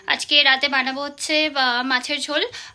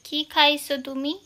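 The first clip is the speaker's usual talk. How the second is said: Bangal dialect question; slower than usual. Shown as a demonstration. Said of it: "বাঙাল ভাষায় বল".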